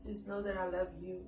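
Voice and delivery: soft sincere love declaration; heartfelt. Real, not acted. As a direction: speak softly from the heart. Wife's heartfelt message to husband.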